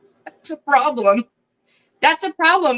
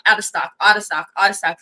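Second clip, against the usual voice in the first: ordinary talk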